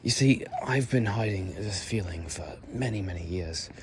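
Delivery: lightly played posh British character; Victorian British accent. Shown as a demonstration. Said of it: "A more Victorian style one".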